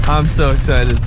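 flat, bored monotone; deadpan meme voice. Pretend. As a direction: say it with zero excitement. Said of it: "you can tell by my monotone voice".

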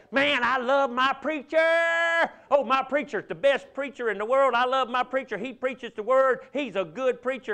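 high, hammed-up adoring churchgoer; imitated fawning, stretched out at the start; mock gushing praise. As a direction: gush like an over-the-top fan of the preacher.

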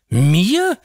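put-on high, loud child's shout of surprise; astonished cry. A narrator's reading. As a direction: gasp it out in disbelief. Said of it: "rief er".

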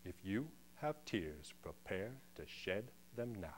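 low, soft recitation; declaimed Shakespeare. Acted. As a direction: begin the famous speech quietly and low. Quoting a Shakespeare speech on stage.

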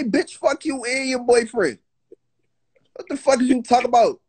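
heated comeback, quick toward the end; retold angry retort. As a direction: fire back indignantly while retelling.

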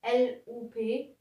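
slow letter by letter spelling; spelling out a sign name letter by letter. Shown as a demonstration. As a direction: spell each letter slowly, puzzling it out. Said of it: "wie spricht man das aus?".

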